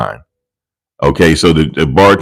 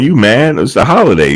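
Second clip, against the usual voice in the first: higher, light teasing; lightly voiced teasing daughter; teasing question; 6 semitones higher than usual. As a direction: poke fun at him.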